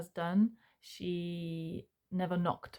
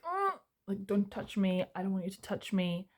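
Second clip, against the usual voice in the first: recoiling don't touch me. Pretend. To a parent on the sofa, a recoiling refusal. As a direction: shrink away from the touch.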